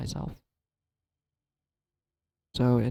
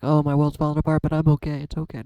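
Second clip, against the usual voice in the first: mock toxic cheerfulness, a bit louder; imitating someone faking being fine; fake positive; 2 semitones higher, 4 dB louder than usual. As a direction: brush it all off with forced brightness. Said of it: "positively toxic and just like".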